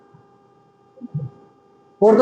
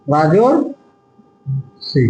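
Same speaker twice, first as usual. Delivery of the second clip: রাজর্ষি drawn out very slowly, syllable by syllable, lower; slow demo; 6 semitones lower, much slower than usual. Shown as a demonstration. Teacher spells out রাজর্ষি for students, very slow and drawn out. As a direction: stretch রাজর্ষি out slowly so each sound is heard. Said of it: "রাজশ্রী নয়".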